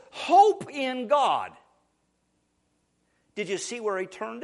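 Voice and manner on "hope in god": louder, slow, ringing declaration; rousing proclamation. Retold or imitated. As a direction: stir the soul with these words. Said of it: "He says".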